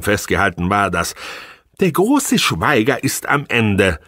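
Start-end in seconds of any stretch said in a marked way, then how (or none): 1.8-4.0 slow, every word set apart; accented words. Acted. Wife cutting into his thoughts, slow and pointed. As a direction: spell out each word slowly. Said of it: "mit akzentuierten Worten".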